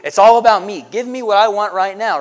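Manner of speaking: high, loud mock-greedy "give me"; selfish demand. Pastor mocking self-centred Americans, loud and high. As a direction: ham up a spoiled demand. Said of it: "it's my money and I want it now".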